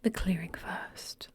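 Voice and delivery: whispered clipped British; lightly voiced British strategist; British accent. Rowan siding with the clearing, whispered British accent. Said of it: "says Rowan".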